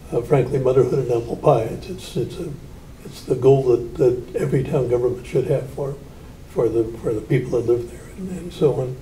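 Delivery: thin squeaky voice; a squeaky, reedy voice. Real, not acted. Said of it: "excuse my, um, squeaky voice again".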